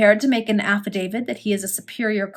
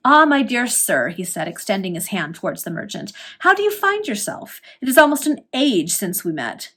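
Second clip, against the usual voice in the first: bland smile. Acted. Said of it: "the bland smile".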